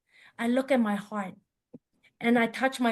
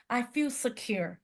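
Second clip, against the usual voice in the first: slower, softer, savouring it; slow soft echo; 5 dB quieter than usual. Real, not acted. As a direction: repeat it like a calm breath.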